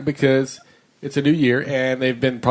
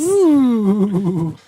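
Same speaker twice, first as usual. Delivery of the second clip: failed Wookiee howl attempt; Chewbacca impression; 7 semitones higher, 3 dB louder than usual. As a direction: try a Chewbacca roar. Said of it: "I'm trying to do Chewbacca".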